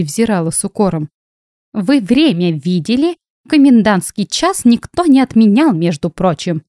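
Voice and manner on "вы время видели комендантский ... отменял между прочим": put-on grumpy old ghost. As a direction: grumble it like a cranky old ghost. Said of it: "Ворчливый голос старой". (ворчливый голос старой привидения)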